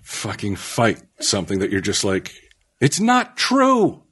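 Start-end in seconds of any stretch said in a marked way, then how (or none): 2.8-4.0 high, stretched-out exasperation; exasperated insistence. Retold or imitated. Tells co-host his tipping point, exasperated high insistence. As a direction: drag it out high as an exasperated retort. Exasperated at false claim, retold.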